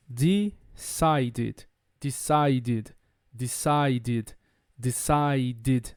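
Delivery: low DECIDED in three syllables, de-cide-id; ID ending. Shown as a demonstration. Teacher modelling DECIDED with an extra ID syllable, low. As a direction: add a separate ID syllable to DECIDED. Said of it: "com som de I D".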